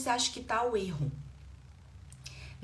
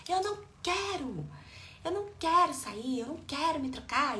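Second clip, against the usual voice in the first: put-on higher-pitched whiny child refusing; defiant child; 6 semitones higher than usual. Child refusing mother's outing and getting changed, defiant. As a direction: act out a child digging in, pitched up. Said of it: "a criança continua no nível hard do desrespeito".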